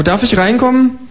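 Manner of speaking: high, chirpy kangaroo asking for eggs. Acted. Kangaroo asking the neighbour for eggs, high and chirpy. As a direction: pipe up like a polite cheeky kangaroo.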